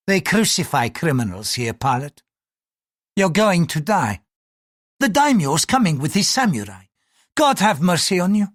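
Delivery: threat rising in pitch; menacing priest. Acted. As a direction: pronounce his doom as a priest.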